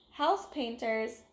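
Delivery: usual speaking voice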